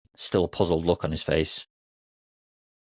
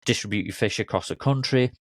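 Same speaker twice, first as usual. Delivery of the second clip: a little frustrated; 3 semitones higher than usual. Acted. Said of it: "getting a little frustrated".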